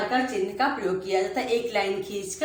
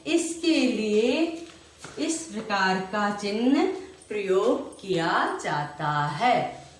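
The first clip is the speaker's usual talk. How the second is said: slow, measured repeat-after-me; choral recital; slower than usual. Shown as a demonstration. Teacher leading class recital, deliberate and slow. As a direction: recite the rule slowly for pupils to echo. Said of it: "मेरे साथ बोलिए".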